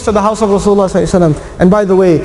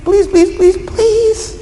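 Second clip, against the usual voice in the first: climbing higher into a desperate plea; begging and pleading; 6 semitones higher than usual. Acted. Abu Sufyan pleading with the Prophet to renew the treaty, rising desperate begging. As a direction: beg harder with each please, higher each time. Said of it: "He's begging and pleading".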